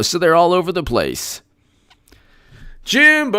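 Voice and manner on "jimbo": high-pitched, drawn-out name call; excited greeting. Real, not acted. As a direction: hail a friend joining in, pitched way up. Host hails a viewer by name.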